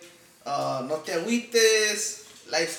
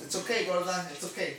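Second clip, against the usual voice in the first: soothing a scared dog; 3 dB quieter than usual. Real, not acted. Calming the upset dog.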